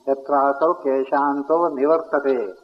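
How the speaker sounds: slow, measured Sanskrit recitation; slow serene guru pauses. Shown as a demonstration. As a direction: intone each word slowly, like a guru. Recites Sanskrit verse slowly.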